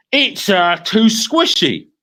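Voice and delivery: chewing while speaking; mouth full. A narrator's reading. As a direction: talk through a mouthful. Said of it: "talking with his mouth full".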